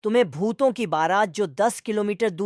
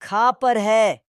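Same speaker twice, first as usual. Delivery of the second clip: very slow, loud, bleated like a goat; drawn-out goat bleat; 2 semitones higher, 5 dB louder, much slower than usual. Acted. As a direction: stretch each syllable out like a bleating goat. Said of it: "उससे पहले तुम्हें पूछना पड़ेगा".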